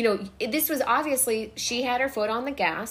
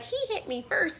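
whiny blaming guy; 10 semitones higher, 4 dB quieter than usual. Retold or imitated. Ass hat blaming others.

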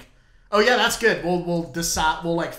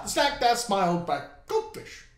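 slow, drawn-out jingle voice; goldfish cracker voice; 5 semitones higher, slower than usual. Retold or imitated. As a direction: stretch the slogan like the ad. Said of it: "that's it".

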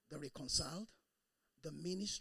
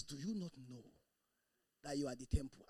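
timid reading; 3 semitones lower than usual. Shown as a demonstration. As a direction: read it without conviction. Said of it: "And you read it that way".

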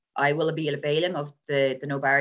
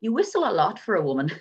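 quoting partner; 4 semitones higher, 3 dB louder than usual. Retold or imitated. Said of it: "my partner is constantly saying".

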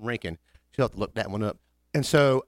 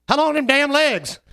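mock waitress; 13 semitones higher, 6 dB louder than usual. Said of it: "She goes".

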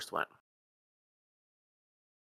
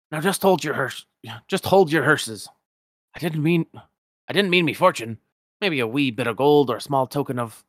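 higher, louder Scottish miser voice; indignant old Scotsman, raised and rolling; Scrooge McDuck; 4 semitones higher, 5 dB louder than usual. Acted.

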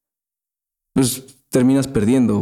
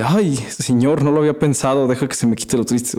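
mock sarcastic reply; 3 semitones higher than usual. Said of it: "es el meme".

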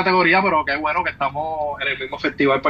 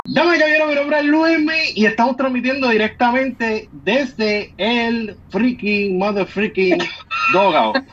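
announcer voice; 5 semitones higher than usual. Pretend. Mock live broadcast opening.

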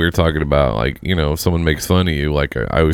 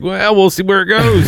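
flirty tease; 9 semitones higher than usual. Retold or imitated. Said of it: "I'm like".

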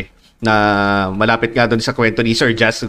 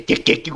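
imitated game sound; 4 semitones higher, 4 dB quieter than usual. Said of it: "parang rininig mo pa lang".

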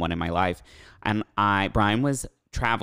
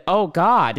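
mock gasp; 9 semitones higher, 6 dB louder than usual. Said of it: "I said".

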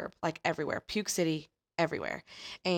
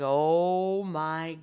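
slow excited gush; 3 dB louder than usual. Retold or imitated. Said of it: "And she was like".

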